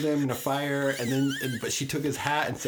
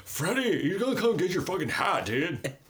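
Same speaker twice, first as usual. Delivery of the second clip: Heather Langenkamp impression; 5 semitones higher than usual. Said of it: "my Heather Langenkamp impression".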